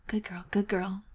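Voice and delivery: breathy secret whisper. Acted. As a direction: whisper it so no one hears. Whispered line in story.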